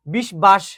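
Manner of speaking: বিষ বাস read as two words, "bish bash"; ভুল বানান-উচ্চারণ. Shown as a demonstration. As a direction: sound the b at the start of বাস. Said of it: "এটি বিষ বাস না". (বিষ বাস, ব-ধ্বনি স্পষ্ট রেখে)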